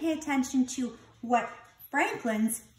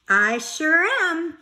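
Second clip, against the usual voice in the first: excited; 8 semitones higher, 7 dB louder than usual. Acted. Bear excited about baby.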